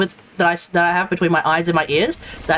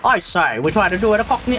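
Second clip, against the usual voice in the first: half-hearted, badly faked Cockney; attempted Cockney accent. Shown as a demonstration. Streamer tries Cockney before giving up, tentative fake Cockney accent. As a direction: have an unsure go at Cockney. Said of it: "try doing a Cockney accent".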